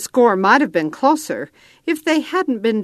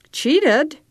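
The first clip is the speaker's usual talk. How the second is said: much higher, outraged question; indignant protest; 9 semitones higher than usual. A narrator's reading. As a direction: throw the word back in disbelief. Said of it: "I protested".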